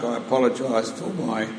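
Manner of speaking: hoarse from spring allergies; croaky, allergy-roughened voice. Real, not acted. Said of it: "croaky voice".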